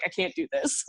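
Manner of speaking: laughing self-quote. Retold or imitated. Singer admitting gossip is too much, laughing. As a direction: give up with a laugh.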